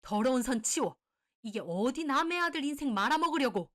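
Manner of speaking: disgusted fury. Acted. Mother shaking off the mistress at her legs, disgusted.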